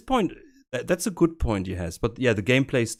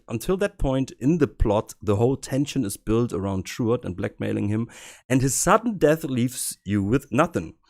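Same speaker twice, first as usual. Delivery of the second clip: put-on German accent. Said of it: "so I read it with my German accent".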